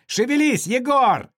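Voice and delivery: loud, high egging-on shout; cheering shout. Acted. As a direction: whip the dancer on. Tourists urging drunk dancer.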